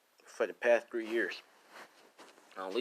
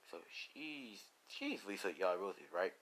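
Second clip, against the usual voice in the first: quiet, musing menace; hushed villain, weighing a plan; scheming villain; 2 semitones lower, 9 dB quieter than usual. Acted. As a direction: murmur it softly to your driver. Villain quietly plots about Lisa.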